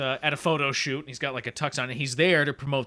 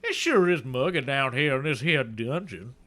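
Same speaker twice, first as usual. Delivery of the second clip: put-on southern accent. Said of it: "I'm a southern dragon".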